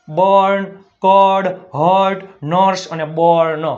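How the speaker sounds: બર્ન, કોર્ડ, હર્ટ, નર્સ slowly, each with "or"; demonstrating u-r vowel. Shown as a demonstration. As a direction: read બર્ન, કોર્ડ, હર્ટ, નર્સ as separate model words. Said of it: "અ થાય છે ઉચ્ચાર". (બર્ન, કોર્ડ, હર્ટ, નર્સ છૂટા અને સ્પષ્ટ)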